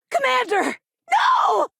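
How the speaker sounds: high, loud cry of alarm; alarmed shout. Acted. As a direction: yell out in panic to the commander. Desperate calling out in combat.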